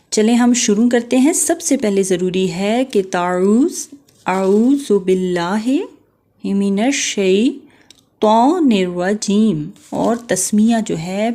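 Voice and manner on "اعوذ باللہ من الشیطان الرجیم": slow drawn-out recitation of the ta'awwuz; tajweed recitation. Shown as a demonstration. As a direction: stretch each word like a qari. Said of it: "سب سے پہلے تعوذ کو پڑھتے ہیں". (تعوذ کی آہستہ تلاوت)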